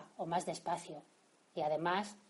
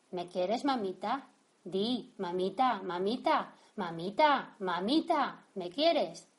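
put-on pleading child; 3 dB louder, slower than usual. Child begs mother for love.

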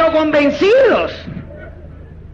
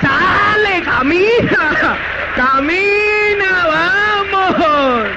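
coaxing him along; 4 semitones higher, much slower than usual. Retold or imitated. Urging a reluctant partner on.

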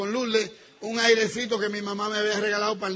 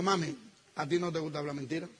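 soft, lower sweet-talking; coaxing; 4 semitones lower, 6 dB quieter than usual. Retold or imitated. Husband breaking bad news to wife, soft coaxing. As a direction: ease her in gently and softly.

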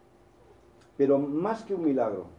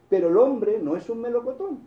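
higher, louder sign reading; roadside sign line; 8 semitones higher, 4 dB louder than usual. Retold or imitated. Preacher reading a roadside sign to the congregation, louder. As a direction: read the sign out with punch. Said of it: "seguía viendo".

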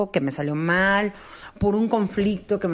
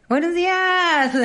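high, slow sing-song greeting; mock cheery greeting; teasing wake-up; 8 semitones higher, slower than usual. Teasing her partner who dozed off, sing-song. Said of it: "teasing a sleeping partner".

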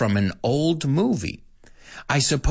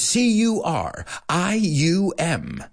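fast spelling; 5 semitones higher, slower than usual. Shown as a demonstration. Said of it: "I really can't go faster".

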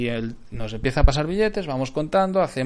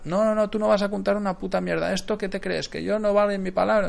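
imitated angry shouting; 7 semitones higher than usual. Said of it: "nos empieza a gritar".

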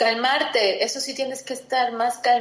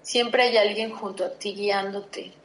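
reassuring past self. Pretend. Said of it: "Le diría a la Iliana del pasado".

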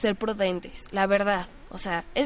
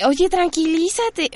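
slow mock calm-down; 5 semitones higher, much slower than usual. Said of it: "si te llega así de".

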